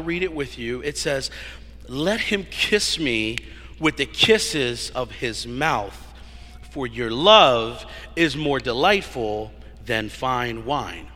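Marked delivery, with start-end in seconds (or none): 1.9-11.1 scripture reading. Acted. Reads scripture slowly.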